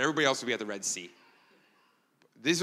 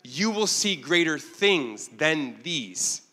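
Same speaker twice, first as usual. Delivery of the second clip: slow, higher, louder solemn promise; voicing Jesus; 3 semitones higher, 4 dB louder, much slower than usual. Preacher voicing Jesus promising Nathanael, slow and solemn. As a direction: draw out each word like a vow. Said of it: "And so Jesus says".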